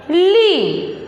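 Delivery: ली with a long drawn ee; long ee demo. Shown as a demonstration. Teacher models the matra sound for the class. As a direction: hold the ee in ली clearly. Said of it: "क्या हो गया शब्द?".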